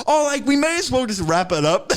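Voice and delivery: high, loud put-on casual voice; mock breezy colleague. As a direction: imitate someone blithely winding up a meeting. Mimicking the others finally ending meeting.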